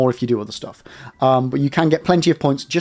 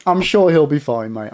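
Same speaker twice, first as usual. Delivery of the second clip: laughing. Real, not acted. Laughing about Daddy Bezos.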